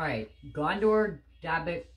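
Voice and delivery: chewing while talking; words muffled by chewing; mouth full of cookie. Real, not acted. Seen 0: Hoodie boy eats cookie throughout, chewing close to camera; speaker uncertain.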